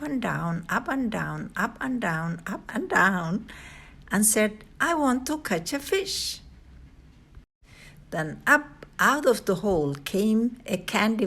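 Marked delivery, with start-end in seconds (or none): 4.8-6.4 put-on impatient girl. A narrator's reading. Cheryl impatient again.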